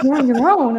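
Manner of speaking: high, loud, laughing imitation; mock alarmed colleague. Wrestler imitating colleagues who find her alone, mock alarm. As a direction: exclaim it through laughter as the worrier.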